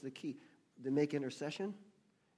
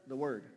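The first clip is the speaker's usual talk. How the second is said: "word" said firmly and louder; stress on WORD; 5 dB louder than usual. Real, not acted. Preacher supplying the missing word to congregation, stress on WORD. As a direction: answer firmly, landing on "word". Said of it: "we really stress the word here".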